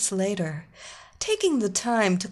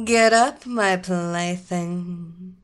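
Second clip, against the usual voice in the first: commanding; 5 dB louder, slower than usual. Acted. Queen commands policeman.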